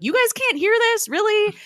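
can't believe they don't hear it; incredulous. Retold or imitated. Coulson asking the others about the screaming, high incredulous. Coulson amazed nobody hears.

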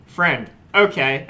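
slow, skeptical sarcasm; sarcastic air quotes. Retold or imitated. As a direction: drag it out with doubt. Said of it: "air quotes".

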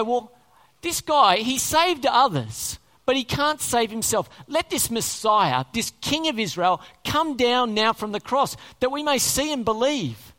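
loud, derisive jeer at a helpless man; mock him loudly for the others to hear. Chief priests jeering at Jesus on the cross, mocking. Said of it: "mocked him among themselves".

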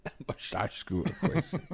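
low, soft echo through laughter; slurred mock movie voice, laughing; laughing imitation. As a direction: mimic the impression while cracking up. Echoes the impression while laughing.

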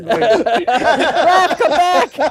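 loud, high call after someone. Real, not acted. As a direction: shout after them to come back. Calling after a leaving friend.

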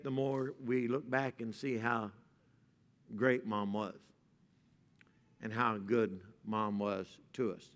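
soft, low sermon voice; tender preaching. Real, not acted. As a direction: speak gently about mothers.

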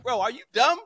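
high-pitched exasperated disbelief; incredulous. Acted. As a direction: pitch climbing with each baffled question. Acted disbelief at fans' demand.

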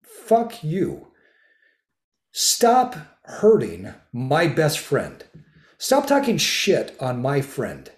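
high, loud, slow protective scolding; angry. Retold or imitated. Defending a best friend from self-insult, fierce scolding. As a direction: lay down the law for your friend. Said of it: "I said".

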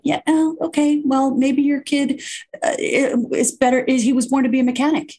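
high, sing-song dawning parent; lilting high mock-cheerful parent. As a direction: play a parent finally getting it. Mocking parents' realization.

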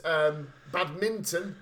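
badminton slow, weight on the last part; stress on badminton. Uncle mispronouncing badminton, odd stress. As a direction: lean on the end of badminton. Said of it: "He would put the emphasis on badminton".

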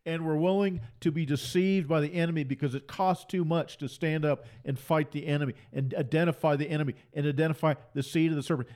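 normal talking voice

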